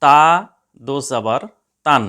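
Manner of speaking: "তা দো জবর তান" chanted syllable by syllable; recitation drill. Shown as a demonstration. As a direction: model it for students to copy. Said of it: "এখানে দেখুন". (শিক্ষকের মতো আবৃত্তি)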